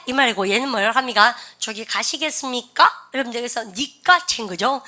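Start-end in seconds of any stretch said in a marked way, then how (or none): 1.6-3.1 respectful question. Acted. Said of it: "respect language가 있는데".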